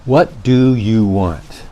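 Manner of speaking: slow, drawn-out exasperated sigh of a line; fed up, stretch every word. Shown as a demonstration. Tired speaker showing frustration to listeners, exasperated. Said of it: "statement of frustration or exasperation".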